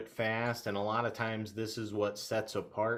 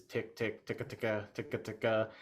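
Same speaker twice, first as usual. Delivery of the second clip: rapid clicky ticka sounds; fast feeding call; 4 dB quieter than usual. Shown as a demonstration. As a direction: rattle off quick duck feed clicks. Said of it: "fast one is".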